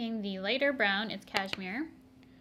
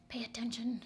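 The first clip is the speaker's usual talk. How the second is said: whispered aside; 4 dB quieter than usual. Real, not acted. Scolding herself aside.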